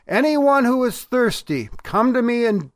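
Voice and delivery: imitating a public cry, without a full shout. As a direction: call out an open invitation to a crowd. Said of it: "the voice cried out".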